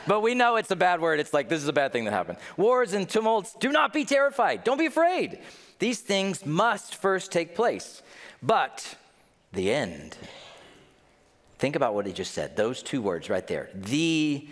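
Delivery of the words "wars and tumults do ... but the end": raised, slow proclamation of a warning; emphatic scripture reading. Acted. Preacher reading Jesus's warning to the congregation, emphatic. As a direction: read it out high and deliberate.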